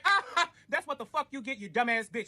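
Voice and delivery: high, slow laughing gloat. Retold or imitated. Narrator watching police stop the ex, laughing gloat. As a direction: laugh at her getting pulled over.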